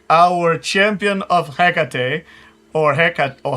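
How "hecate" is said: Hecate ending in a clear "ay"; first pronunciation of Hecate. Shown as a demonstration. Host introducing the champion's goddess, Hecate ending in "tay". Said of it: "however you wanna call her".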